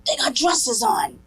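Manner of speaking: put-on high, alarmed young daughter voice, climbing at the end; daughter's alarm. Daughter stepping off the plane in Poland, alarmed high voice. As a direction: mimic the kid panicking at men in robes. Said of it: "She goes".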